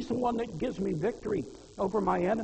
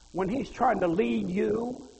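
slow fervent preaching; 3 semitones higher, 7 dB louder, slower than usual. Real, not acted. Preaching at full force.

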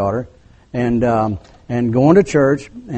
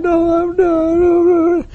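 high-pitched tearful protest; imitated crying; 13 semitones higher, slower than usual. Girl protesting in front of the parents, mock crying. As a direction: wail the denial like a crying girl. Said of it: "And she's crying".

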